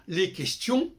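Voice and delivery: "les questions" without the S; silent final S. Shown as a demonstration. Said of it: "Les Français disent". ("les questions" sans prononcer le S)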